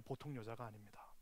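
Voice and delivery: whisper. Acted. Preacher drops to hush.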